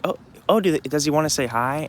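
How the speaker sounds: high, eager retold question; friendly invitation. Dog owner asking if he wants to say hi, friendly. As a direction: lightly voice a friendly stranger. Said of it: "they were so friendly".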